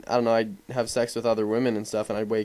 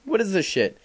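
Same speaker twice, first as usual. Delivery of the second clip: shocked disbelief; 4 semitones higher than usual. Retold or imitated. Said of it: "and I was like".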